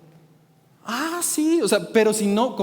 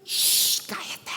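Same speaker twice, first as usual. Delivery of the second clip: shushing; 6 dB quieter, much slower than usual. Retold or imitated. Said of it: "siguió levantando su voz".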